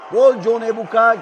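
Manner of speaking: loud, punched goal call; screaming football commentator. Real, not acted. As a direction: belt out the goal and the scorer. Goal announcement.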